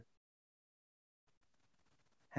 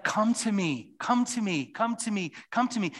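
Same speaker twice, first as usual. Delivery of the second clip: Aslan inviting; 9 semitones higher, 4 dB louder than usual. Retold or imitated. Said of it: "He's like".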